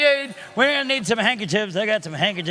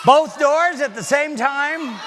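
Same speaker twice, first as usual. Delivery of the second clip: mock demand; 4 semitones higher, 3 dB louder, slower than usual. Magician mock-demanding kids' request.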